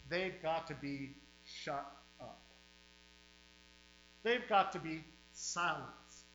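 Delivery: fiery pulpit preaching, hammering each line. Real, not acted. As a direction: revival preacher warning the flock. Preaching at full force.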